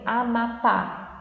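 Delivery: Amapá said slowly, syllable by syllable; word sounded out. Shown as a demonstration. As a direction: stretch out Amapá, landing on the final PÁ. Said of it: "vai ser aquela que tá com".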